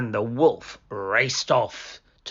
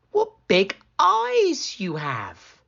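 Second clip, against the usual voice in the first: put-on higher, wondering girl; curious little girl; 9 semitones higher, 4 dB louder, slower than usual. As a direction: marvel innocently.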